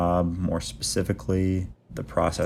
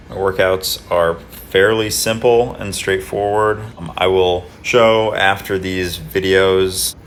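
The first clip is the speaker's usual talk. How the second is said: more enthusiastic; 3 dB louder than usual. Real, not acted. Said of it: "try and be more enthusiastic the rest of the video".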